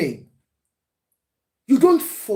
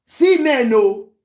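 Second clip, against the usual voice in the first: firm refusal; 3 semitones higher, 5 dB louder, much slower than usual. Retold or imitated. Acting father's refusal to daughter.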